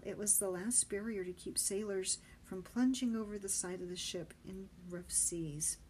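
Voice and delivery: ordinary delivery, nothing marked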